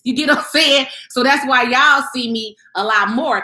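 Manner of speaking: ordinary talk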